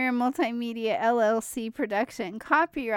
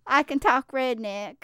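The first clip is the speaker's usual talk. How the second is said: Southern redneck twang, put on; redneck accent; 2 semitones higher than usual. Shown as a demonstration. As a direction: show off your redneck voice. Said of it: "redneck voice".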